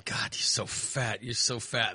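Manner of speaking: low, soft, slow self-scolding; self-disgust. Retold or imitated. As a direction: grumble at yourself, low and quiet. Retells disgusted self-talk.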